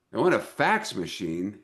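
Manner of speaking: puzzled repeat, rising at the end; incredulous question. Retold or imitated. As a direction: echo the demand in mock disbelief. Retold disbelief at the demand.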